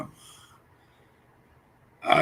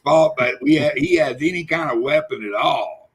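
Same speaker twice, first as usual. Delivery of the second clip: mock rant; 9 semitones higher than usual. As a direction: rant it like an outraged caller. Reads chat comment aloud, ranting.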